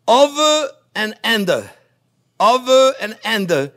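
over and under, stretched slowly and loud; slow demo. Shown as a demonstration. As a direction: call out each move slowly as you do it.

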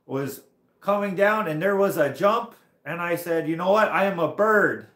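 loud, high, hammed-up French accent; boastful tale in an imitated French accent. French rider bragging about a jump, imitated French accent. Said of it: "I wish I could do the French accent better".

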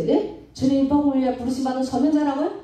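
high, fast startled question; can't believe what was just said; shocked disbelief. Retold or imitated. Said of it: "와양탕 놀라면서". (설교를 듣고 깜짝 놀라 되묻는 말투)

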